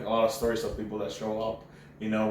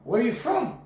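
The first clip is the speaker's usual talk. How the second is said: mock cop voice; 12 semitones higher than usual.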